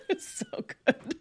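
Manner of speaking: squealing high laugh; high laughter. Real, not acted. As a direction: laugh through the words. Laughing after the impression.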